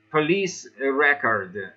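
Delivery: record as a noun, stressed first, REC-ord. Shown as a demonstration. Teacher giving the noun example, REC-ord. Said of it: "We usually say".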